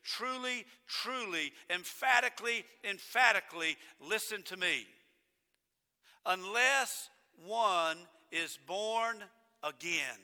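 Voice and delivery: slow, weighty emphasis on each phrase; emphatic repetition. Shown as a demonstration. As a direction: drag out born again solemnly. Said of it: "absolutely necessary that you listen to it".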